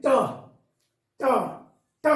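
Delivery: ट held apart with a pause each time, tongue tip curled up; ट as a retroflex stop, spaced out for pupils; syllable demo. Shown as a demonstration. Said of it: "तालु के एकदम बीचों बीच में".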